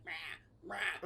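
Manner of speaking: soft imitated creature rasp; faint little monster cries; gremlin noise. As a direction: quietly mimic a gremlin's croak. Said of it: "the gremlin's like".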